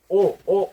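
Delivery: ओ, ओ as separate, clean vowel sounds; isolated vowel sound. Shown as a demonstration. Teacher showing honest's first sound, ओ repeated as a bare vowel. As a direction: sound out ओ twice with no H before it. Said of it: "ओ का उ-, यहाँ पे pronunciation".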